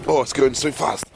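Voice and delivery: high-pitched, swearing in alarm; startled exclaiming. Real, not acted. Vlogger caught in fast-moving weather, startled high exclaiming. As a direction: exclaim it high as it rushes at you.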